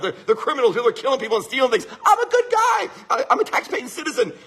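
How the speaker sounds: imitating a driver arguing with a cop; indignant protest. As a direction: plead your case in hammed-up indignation. Pulled-over driver protests to officer.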